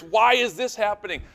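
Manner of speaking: high, loud exasperated demand; mock furious. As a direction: act out an outraged question. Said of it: "we get so furious".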